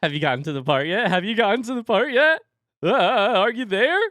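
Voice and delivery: high, loud eager pestering; impatient excited asking; eager nagging. Retold or imitated. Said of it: "I'm like".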